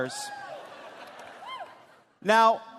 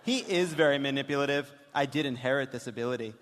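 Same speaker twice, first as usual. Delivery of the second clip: lower, dry reading of the texts; deadpan daughter reading; 4 semitones lower, 3 dB quieter than usual. Acted. Host voices the daughter's texts, dry and deadpan. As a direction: read the daughter's lines dryly. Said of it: "when we do this dramatic reading".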